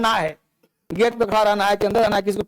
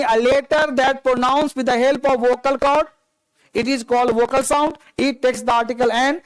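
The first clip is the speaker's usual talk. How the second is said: very slow, even English definition; slow dictation; much slower than usual. Acted. Teacher dictating the rule to students, very slowly. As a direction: dictate each word for notes.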